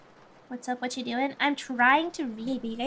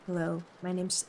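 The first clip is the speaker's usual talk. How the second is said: deep voice; 5 semitones lower, 6 dB quieter than usual. Shown as a demonstration. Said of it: "I gotta practice".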